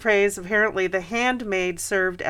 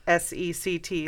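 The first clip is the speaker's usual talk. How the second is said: muffled through a mask; spelled out through a mask; through a face mask; 4 dB quieter than usual. Real, not acted. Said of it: "sorry, I have a mask on".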